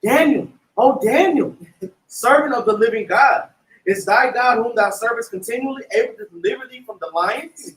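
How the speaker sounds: dramatic scripture reading in a lamenting voice; lamentable cry. Acted. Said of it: "he cried with a lamentable voice".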